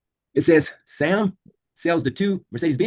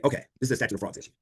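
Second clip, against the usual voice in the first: quick inner thought; 5 dB quieter, faster than usual. Shown as a demonstration. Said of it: "immediately say".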